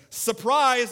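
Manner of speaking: mock child yelling surprise; kid's surprise. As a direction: shout it like a proud little boy. Son reveals himself.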